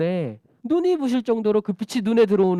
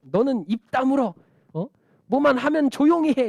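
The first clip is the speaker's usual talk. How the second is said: raised, higher scolding of a beggar; rude silencing; 6 semitones higher, 3 dB louder than usual. Acted. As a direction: tell him off as the annoyed crowd. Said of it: "이렇게 얘기하는 거야".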